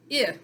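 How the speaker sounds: "i" as an isolated short vowel; short I sound. Shown as a demonstration. Teacher prompting the class for I's sound, short vowel sound. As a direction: sound out "i" on its own.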